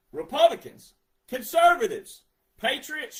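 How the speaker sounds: loud, high call to the crowd; shouted roll call of the crowd. Real, not acted. Calling out to a group.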